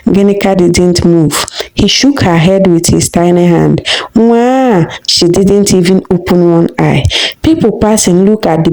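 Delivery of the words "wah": put-on baby cry. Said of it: "He cried loud".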